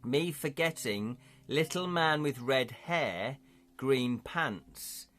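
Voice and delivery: slow hobgoblin, word by word; a hint of a halting creature voice; lightly voiced hobgoblin. Hobgoblin instructing the party about the bell, slow creature voice.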